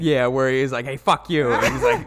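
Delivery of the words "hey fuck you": louder, higher playful retort; mock angry swearing. Retelling the video game swearing match, mock angry. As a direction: toss out a punchy mock insult.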